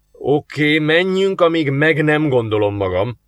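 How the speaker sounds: a touch of reluctant grumbling. A narrator's reading. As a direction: give in grudgingly, half under the breath. (enyhén morgolódó, kelletlen beleegyezés)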